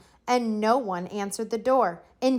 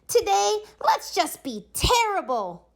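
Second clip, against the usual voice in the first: put-on mischievous kids; 12 semitones higher than usual. A narrator's reading. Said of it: "they said".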